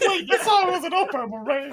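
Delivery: high, slow, laughing; laughing quote. Retold or imitated. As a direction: quote yourself through laughter. Quoting his own confusion, laughing.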